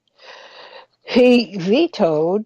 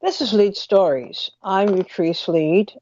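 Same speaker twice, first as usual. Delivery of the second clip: talking with a stiff, half-open mouth; mouth barely opening. Real, not acted. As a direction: jaw barely moving, mouth not opening. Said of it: "I can't, uh, open my mouth all the way".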